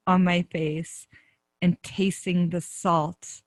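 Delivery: slow, measured ending with long pauses; heartfelt closing. Real, not acted. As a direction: land the story slowly, phrase by phrase. Storyteller's closing moment of realization.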